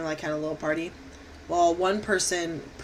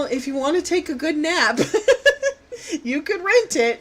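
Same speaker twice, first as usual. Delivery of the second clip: laughing; 8 semitones higher than usual. Real, not acted. Joke told laughing.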